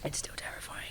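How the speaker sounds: really husky, voiceless and soft. Real, not acted. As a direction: let it fade into a husky near-whisper. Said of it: "She says in a really husky voice".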